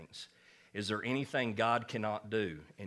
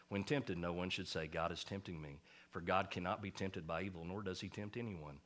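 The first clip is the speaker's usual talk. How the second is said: sweet scripture reading; 2 semitones lower, 7 dB quieter than usual. Shown as a demonstration. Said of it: "Doesn't that sound so sweet?".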